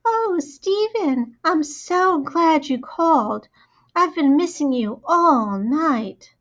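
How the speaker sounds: high, drawn-out, swooning imitation; mocking high girl voice. A narrator's reading. Brother mimics his sister to her friend, mocking high voice. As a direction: gush slowly in a mock-lovesick falsetto. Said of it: "in a high voice that was supposed to sound like me".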